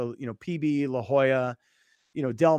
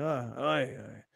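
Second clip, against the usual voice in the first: put-on Aussie accent; 2 semitones lower, 6 dB quieter, much slower than usual. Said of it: "Is he Australian?".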